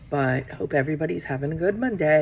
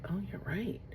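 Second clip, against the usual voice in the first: hushed whisper, conceding the point; a soft sheepish whisper; whispered agreement; 4 semitones higher, 8 dB quieter than usual. Retold or imitated. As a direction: whisper it as if realizing quietly. Whispered reply conceding to daughter.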